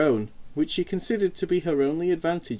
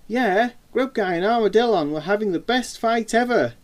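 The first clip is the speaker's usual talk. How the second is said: higher-pitched, gleeful little brother; grinning; 7 semitones higher, 4 dB louder than usual. A narrator's reading. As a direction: say it through a big grin. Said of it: "he said with an even bigger smile".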